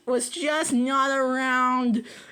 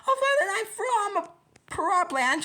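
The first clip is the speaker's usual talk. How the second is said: snarling villain; 9 semitones higher, 4 dB louder than usual. Acted. Plant taunting the bear from far away. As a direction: bark at him with menace. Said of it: "called back".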